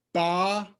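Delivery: "Ba-chen" as two separate beats; teacher sounding out "Ba ... chen"; split into syllables. Shown as a demonstration. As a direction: hold "Ba", pause, then throaty "chen". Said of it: "One syllable, two syllables".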